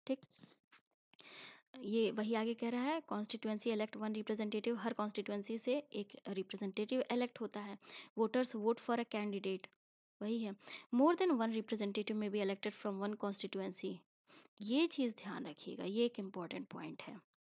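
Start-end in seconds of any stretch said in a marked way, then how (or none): 3.1-4.8 slow, deliberate textbook reading; slow reading aloud. Acted. 8.2-9.7 slow, deliberate textbook reading; slow reading aloud. Acted. 11.0-14.0 slow, deliberate textbook reading; slow reading aloud. Acted.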